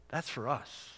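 ordinary talk

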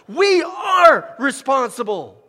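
slow, high, loud declaration; drawn-out preacher's shout; proclaimed yell. Shown as a demonstration. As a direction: shout it so they really hear it. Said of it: "We gotta hear it like that".

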